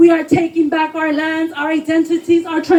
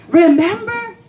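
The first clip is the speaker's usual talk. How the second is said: higher-pitched reminiscing question; imagined future voice recalling the past, pitched up; looking back someday; 3 semitones higher than usual. Acted. People of a future day looking back, reminiscing aloud. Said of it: "we look back and we say".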